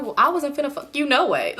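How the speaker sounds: sassy dismissive brush-off, half laughing; mild retold sass toward the guy; with an attitude. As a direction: toss it off with attitude. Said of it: "how I said it was with an attitude".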